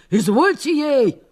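a mock brazen yell; demanding shout. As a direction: order the mistress about. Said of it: "стала кричать на барыню".

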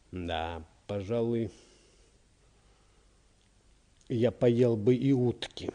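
halting, wistful admission; sighing. A narrator's reading. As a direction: give in slowly with a longing sigh. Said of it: "вздохнул товарищ прокурора". (со вздохом, медленно, мечтательно)

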